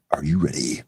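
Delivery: deep dramatic trailer announcer; low, booming movie trailer announcer; movie theater announcer voice. Pretend. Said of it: "I just need to do, like, movie theater announcer voice".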